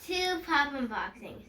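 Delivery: stuffy allergy voice; allergies. Real, not acted. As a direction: sound a bit blocked up from allergies. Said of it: "if I sound a bit off, it's because I have allergies".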